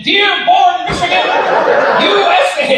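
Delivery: high-pitched, emphatic proclamation; hammed-up patriotic yell; retold proud shout. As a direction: shout the hometown like a chant. Proudly answering an aggressive stranger.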